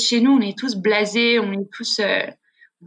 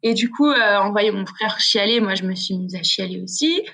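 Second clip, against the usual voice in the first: ordinary talk, nothing marked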